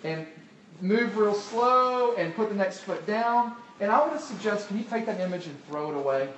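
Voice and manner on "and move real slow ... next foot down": tightrope caution. Retold or imitated. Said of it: "So it's like".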